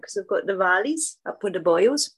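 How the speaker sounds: a light, bad Welsh accent; a hint of a terrible Welsh accent. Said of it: "that's terrible Welsh accent".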